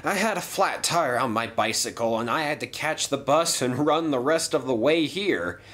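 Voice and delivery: apologetic, fussy, a bit breathless; flustered gentleman voice. Acted. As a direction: fluster through the excuses politely. Late new controller apologizes.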